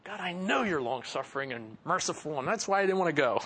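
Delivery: fast, grumbling mock complaint; a peeved prophet sulking at God; mildly annoyed Jonah griping; ticked-off Jonah. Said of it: "Jonah's ticked about that".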